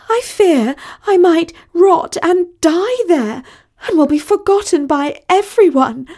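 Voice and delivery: high, quavering damsel in distress; high-pitched, overwrought pleading; melodramatic plea. A narrator's reading. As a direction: beg to be rescued, theatrically. Melodramatic plea for rescue by voicemail.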